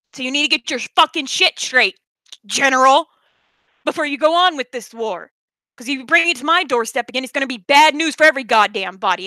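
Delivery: heated warning, hitting the key words hard; irate, no-nonsense challenge; real anger. Real, not acted. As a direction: lay down a threat, fed up. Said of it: "I'm sorry, I'm angry".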